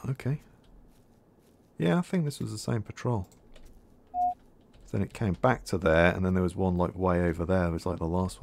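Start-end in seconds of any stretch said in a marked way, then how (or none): none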